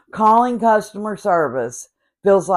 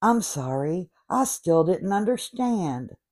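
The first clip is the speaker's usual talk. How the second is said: snippy robot; 5 dB quieter than usual. Acted. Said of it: "Then they start giving attitude".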